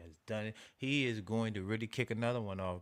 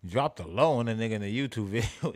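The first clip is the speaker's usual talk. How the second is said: laughing; 6 dB louder than usual. Real, not acted. Laughs retelling video.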